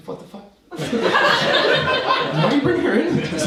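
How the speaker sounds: high, fast outraged squeal; shocked outrage. Retold or imitated. To his uncle about the aunt, a high outraged squeal. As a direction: thrown by the oath. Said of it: "And I was like".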